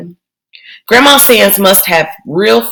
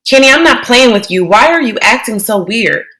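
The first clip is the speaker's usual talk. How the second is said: choky voice; 3 semitones higher than usual. Acted. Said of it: "Her voice was starting to get all choky".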